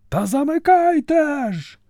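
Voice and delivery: високий відчайдушний крик; кричить на ходу з колісниці; панічний наказ. A narrator's reading. Цар кричить знову. (цар у паніці кричить варті)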